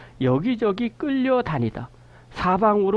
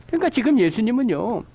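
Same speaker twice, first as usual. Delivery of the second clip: usual speaking voice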